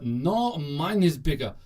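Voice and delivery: lightly done mock Russian accent; slow, hammy attempt at a Russian accent; half-convincing Russian boast; bad Russian accent. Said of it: "that was a really bad Russian accent".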